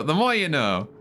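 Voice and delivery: drawn-out PSA tagline; announcer parody. Acted. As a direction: say it like a TV jingle.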